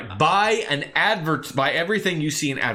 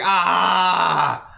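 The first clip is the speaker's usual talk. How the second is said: dinosaur roar; 3 dB louder than usual. Shown as a demonstration. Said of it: "that is what the sound dinosaurs make?".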